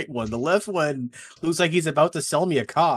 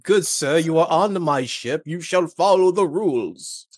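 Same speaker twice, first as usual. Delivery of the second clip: slow, loud, high lordly command; commanding captain; 4 semitones higher, 4 dB louder, slower than usual. Acted. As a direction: lay down the law to a guest on your ship. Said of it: "we could use a command test, like".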